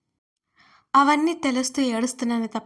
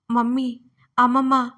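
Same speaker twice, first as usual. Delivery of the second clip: calling out louder in fear for mum and grandma; frightened cry; 6 dB louder than usual. Acted. Girl in a dark hall calling her mother, scared loud call. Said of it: "అని భయంతో అరిచాను".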